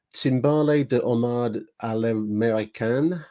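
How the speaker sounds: slow, careful attempt at French, "Timbale de homard à l'américaine" in an English speaker's French accent; mangled French accent. Shown as a demonstration. Podcast host reading an old dinner menu to listeners, shaky French accent. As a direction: read the French menu like a self-conscious Englishman. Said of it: "my French accent is gonna be suffering".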